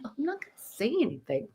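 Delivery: fast, high sheepish protest; mock innocent. To the scolding manager, sheepish and quick. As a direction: play innocent, quick and light. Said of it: "And I'm like".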